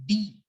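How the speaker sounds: D said as "dee"; English letter D. Shown as a demonstration. Teacher showing the English alphabet, D as "dee". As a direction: give D its English name, "dee". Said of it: "this alphabet in English as".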